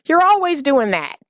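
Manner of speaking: lightly voiced complaining boyfriend; nagging complaints. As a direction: mimic a man griping at his woman. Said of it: "you know, says".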